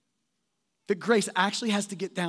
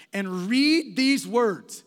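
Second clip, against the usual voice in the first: slow, stressed read these words; emphatic instruction; much slower than usual. Shown as a demonstration. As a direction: press each word deliberately. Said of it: "Read it carefully with great emphasis".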